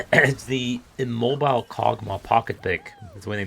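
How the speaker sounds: strained, losing voice; rough voice giving out; hoarse voice. Real, not acted. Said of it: "I'm losing my voice".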